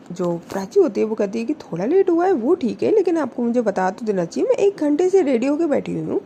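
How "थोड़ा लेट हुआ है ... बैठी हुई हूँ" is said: angry. A narrator's reading. Prachi angry on phone.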